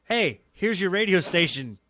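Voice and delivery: slow, smug hand-over with a jab; mocking quote. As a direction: drawl it out like a smug insult. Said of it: "I believe the exact words were".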